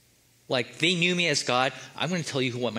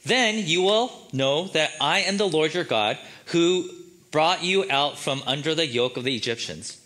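voice of God; 3 dB louder than usual. Shown as a demonstration.

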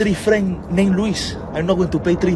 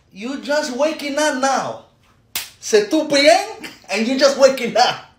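sarcastic scolding; 4 semitones higher than usual. Acted. Parent to child waking at two PM, sarcastic. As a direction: scold with exaggerated fake apology.

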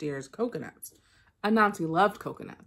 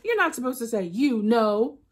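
cross Anansi; 4 semitones higher, 5 dB louder than usual. Acted. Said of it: "Anansi shouted".

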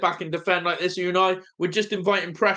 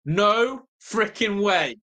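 disbelief; 2 semitones higher, much slower than usual. Real, not acted. VAR check for handball.

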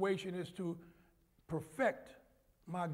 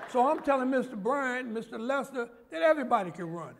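laughing; 5 semitones higher, 7 dB louder than usual. Real, not acted. Telling detectives, laughing.

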